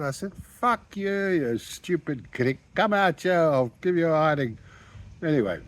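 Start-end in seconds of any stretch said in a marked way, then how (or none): 0.3-4.6 higher mock furious challenge; screaming back. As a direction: dare him to come out and fight. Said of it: "swearing and screaming at each other".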